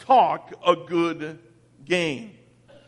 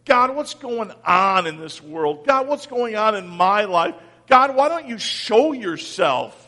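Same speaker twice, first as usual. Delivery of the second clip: pleading complaint; 3 semitones higher than usual. Retold or imitated. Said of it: "I hear myself say".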